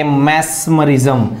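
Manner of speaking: teacher's slow drill of मैस्मरिज्म; slow model word. Shown as a demonstration. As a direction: draw out मैस्मरिज्म for repetition. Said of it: "क्या बोलेंगे?".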